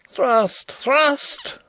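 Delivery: high, loud fighting shout; Rupert's battle cry. A narrator's reading. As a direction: shout it like a command mid-swordfight. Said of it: "cried Rupert again".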